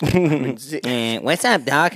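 lightly voiced cartoon wisecracker; cartoon rabbit catchphrase. Rabbit greeting the depressed hunter, lightly wisecracking.

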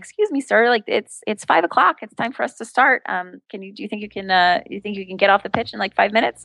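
a hint of little-girl helplessness; little girly. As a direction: politely wheedle like a little girl. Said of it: "get as little girly as possible".

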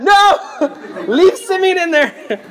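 high, drawn-out order with a laugh; mock imperious refusal. Governor orders servants to leave the prisoner jailed, mock imperious. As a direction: refuse it grandly, half laughing.

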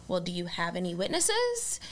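lightly voiced old-fashioned policeman; a hint of a weary old cop; old-timey cop voice. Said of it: "You've got a great old-timey cop voice".

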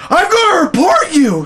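high, loud squeaky threat; mock indignant threat. Shaken boss threatening to report the woman, indignant. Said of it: "He's like".

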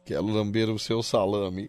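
grudging repeat. Real, not acted. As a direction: drag it out unwillingly. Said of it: "eu vou falar, você repete". (repetindo devagar e baixo, a contragosto)

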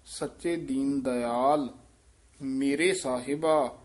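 slow, with a pause after ਦਇਆਲ before ਮੇਰੇ ਸਾਹਿਬਾ; careful recitation. Shown as a demonstration. Teacher demonstrating where to pause, slow and deliberate. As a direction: say ਸੱਚੇ ਦੀਨ ਦਇਆਲ slowly, stop, then ਮੇਰੇ ਸਾਹਿਬਾ. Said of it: "ਇਹ ਧਿਆਨ ਨਾਲ ਉਚਾਰਨ ਕਰਨਾ ਹੈ".

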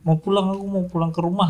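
put-on high, soft whining little kid; whiny child voice. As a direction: whine like a tired toddler. Father voices a tired child.

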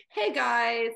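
chirpy hello to listeners; customer service voice. Retold or imitated. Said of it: "every time I open this podcast episode, I'm like".

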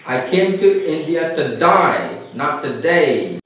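imitated Australian accent, "today" turned into "to die". Teacher shows how Australians say today, imitated Australian accent. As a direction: demonstrate the Australian "die" for "day". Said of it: "so they say".

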